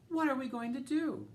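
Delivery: high, loud, frantic wail; panicked cry. A narrator's reading. Mother panicking over her changing daughter, high loud cry. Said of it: "cried Missus Cream".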